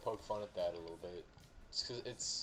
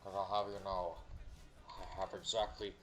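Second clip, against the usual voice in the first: mocking pro-gun Southerner. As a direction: ham up a proud redneck soldier bragging. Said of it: "my favorite to make fun of".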